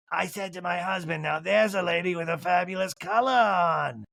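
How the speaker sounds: lightly voiced elderly lady; older lady. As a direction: draw out the last words as an old lady. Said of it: "And the pink lady's like".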